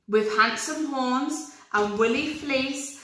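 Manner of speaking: slow, searching for a rhyme; faltering recital. Acted. Rabbit stuck for a rhyme, slowing down. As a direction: stretch it out while hunting the word.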